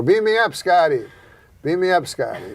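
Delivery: failed celebrity impression of Chekhov; Chekhov without the accent. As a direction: deliver it flat like an impressionist who can't do the voice. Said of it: "But I didn't do the voice".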